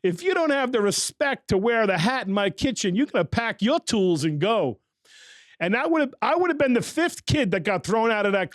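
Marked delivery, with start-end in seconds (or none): 0.0-4.8 stern instructor's dressing-down, lightly put on; imitating Chef Clark. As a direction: mimic a tough chef scolding a student. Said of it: "'cause you remember that's how he talked".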